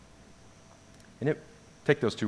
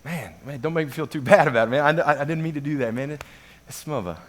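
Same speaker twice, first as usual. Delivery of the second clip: hurried, higher excuse trailing into "smuba"; imitating apologetic friend; 5 semitones higher, faster than usual. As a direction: rush through a mock apology. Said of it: "And Chris goes".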